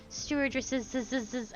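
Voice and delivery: "Stewardesses" with a buzzing extra z on the end; stewardesses with extra s's. Retold or imitated. Retelling a childhood stage line, stewardesses with stuck-on z's. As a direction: hiss out "z, z, z" after "Stewardesses". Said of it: "from adding the S's".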